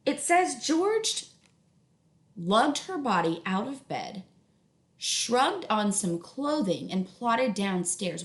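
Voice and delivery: slow, weighty read-aloud; slow deliberate reread. Shown as a demonstration. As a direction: drag it out like heavy steps. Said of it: "Let's think about that word plodded".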